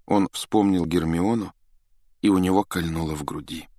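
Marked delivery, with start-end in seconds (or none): none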